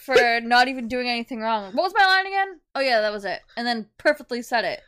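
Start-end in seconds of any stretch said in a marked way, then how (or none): 1.7-2.6 lifted, louder mock actor voice asking for the line; imitating a flustered actor. Friend imitating the movie star forgetting his line, mock flustered. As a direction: play the actor who forgot his line, half-joking.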